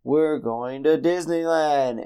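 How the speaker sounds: lightly voiced dad announcing a treat, slow; mild mock-grand announcement, stretched out; imitated dad announcement. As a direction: draw it out like a dad's big reveal. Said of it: "my dad, you know, makes this little video. He's like".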